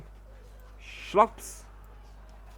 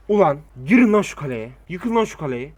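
shouting; 9 dB louder than usual. Real, not acted. Yelling orders at troops.

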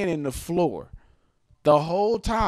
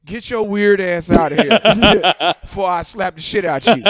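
angry order; 10 dB louder than usual. Retold or imitated. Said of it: "C Lou says".

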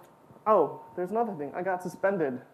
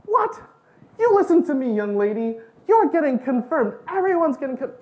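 sharp, much louder and higher scolding; scolding nun; 6 semitones higher, 7 dB louder than usual. Retold or imitated. Tiny nun scolding her pupil, loud and outraged. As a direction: snap at the tall kid like an outraged teacher. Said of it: "she looks up at me and she says".

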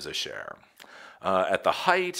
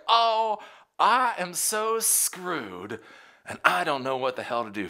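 mock panic; 10 semitones higher than usual. CEO's panicked face voiced by the host, hammed-up dread. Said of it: "That is like".

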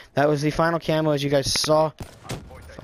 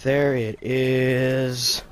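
slow relieved savoring; 4 dB louder, much slower than usual. Real, not acted. Savoring the unlock.

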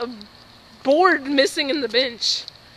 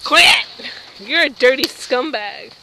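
shouting; 7 dB louder, slower than usual. Real, not acted. Yells at friend.

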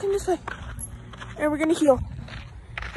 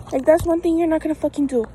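stern scolding; 7 dB louder than usual. Real, not acted. Scolding the dog for pulling.

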